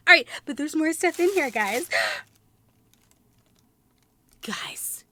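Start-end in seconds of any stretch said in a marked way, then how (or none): 4.4-5.1 hushed secret whisper; soft, breathy conspiratorial whisper. Real, not acted. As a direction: lean in and whisper to viewers. Spots a secret in box.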